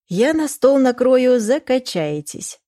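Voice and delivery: mother bragging about the table she'll lay, slow; proud announcement. Acted. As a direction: declare the feast with gusto. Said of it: "заявила мама".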